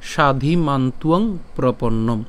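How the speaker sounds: slow, measured Sanskrit verse recitation; shloka recitation. Shown as a demonstration. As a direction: draw out the long syllables, pausing after each phrase. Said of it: "আজকের শ্লোকটি হলো".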